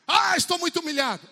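high, loud self-pitying wail; mock a sulking believer whining; hammed-up moan of humiliation; whiny complaint.

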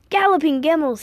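high, loud cry of dismay; alarmed exclamation. A narrator's reading. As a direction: exclaim it like an eccentric old man. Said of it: "he exclaimed".

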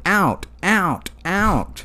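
high dog button voice; talking dog voice. Retold or imitated. Dog pressing talk buttons.

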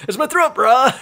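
laughing surfer dude. Pretend. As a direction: play a chill surfer bro. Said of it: "surfer guy".

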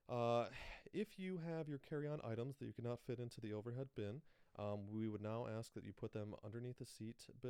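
lightly voiced sassy flight attendant; a hint of a sassy steward's announcement. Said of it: "I'm gonna try to do a gay black stewardess impression".

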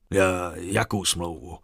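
slow, halting stutter on the first word; mild bewildered stammer; confused stammer. Acted. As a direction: trip over the words, caught off guard. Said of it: "zakoktal se zmatený ničitel".

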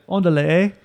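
put-on light East L A accent. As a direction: toss in a touch of East L A accent. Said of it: "like Cheech and Chong".

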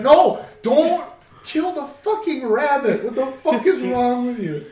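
hammed-up horror at the rabbit; retold outrage. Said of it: "And he's like".

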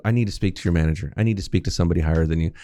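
quick demanding Karen voice; lightly voiced demanding customer; entitled customer. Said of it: "They start that journey of".

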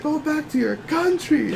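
retold angry yell. Customer yells at the clerk over refills, mock angry yell. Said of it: "he's, like, yelling at me over ten cents".

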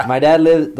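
high, loud laughing start; real laughter breaking into the words. Real, not acted. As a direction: talk through a laugh. Laughing while telling prank.

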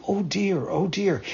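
lightly voiced pained whimper; wolf crying out as hot coals burn his throat; mock pained cry. A narrator's reading. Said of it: "crying and shaking his jaw".

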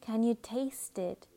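calm, measured meditation guide with unhurried pauses; soothing guided-imagery voice, phrase by phrase. Acted. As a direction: gently lead the listener into relaxation.

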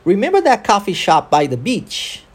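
connected English rhythm, "remember" peaking, "beach" lifted at the end; model rhythm and intonation. Shown as a demonstration. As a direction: question with stress on "remember", rising on "beach". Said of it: "Ok, vamos tentar?".

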